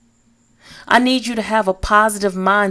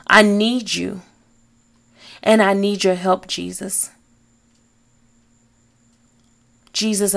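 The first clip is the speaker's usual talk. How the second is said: prayer said together. Shown as a demonstration. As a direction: lead them through the prayer word by word. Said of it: "Now we say it together".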